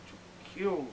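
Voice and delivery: to kill said softly under the breath; soft first to kill. Acted. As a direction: hold to kill back quietly. Lust awakening, building.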